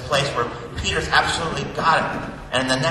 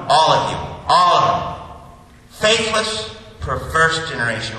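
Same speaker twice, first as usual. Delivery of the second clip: loud, sweeping accusation; acted angry rebuke; 4 dB louder than usual. Jesus blaming all, not just disciples, angry. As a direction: aim the rebuke at every one of them, loudly. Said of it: "He sounds angry".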